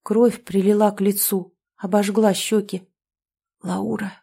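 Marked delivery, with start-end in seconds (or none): 3.6-4.1 soft whispered plea; whispered apology. A narrator's reading. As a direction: breathe it out ashamed. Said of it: "прошептал я". (шёпотом, виновато)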